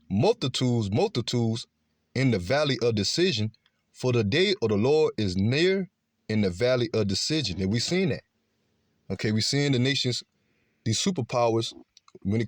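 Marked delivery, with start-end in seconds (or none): 0.1-7.6 declaimed Bible verse with swooping emphasis; scripture reading. Acted. Preacher reading prophecy of the valley of decision, declaimed scripture reading. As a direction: read the verse out with weight on key words. Reads scripture aloud to listeners.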